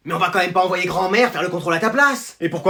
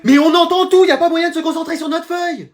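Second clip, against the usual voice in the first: exasperated complaint; 8 semitones higher than usual. Acted. Pupil complaining they cannot concentrate, exasperated. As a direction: complain in a raised, high voice. Élève se plaint du bruit.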